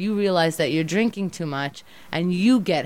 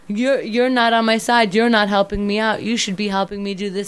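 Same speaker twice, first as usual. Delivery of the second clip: mock alcoholic whine; 3 semitones higher, 4 dB louder than usual. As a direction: whine it like a defensive drinker. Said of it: "That's what alcoholics say".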